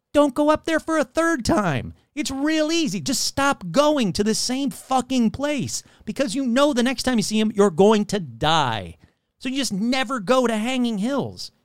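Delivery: comic rant, pitch climbing on the warnings; exasperated rant. Real, not acted. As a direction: lecture them in exasperation on the obvious. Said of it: "how to avoid a curse rant".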